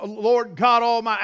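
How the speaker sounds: angel crying out. Retold or imitated. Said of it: "he starts crying".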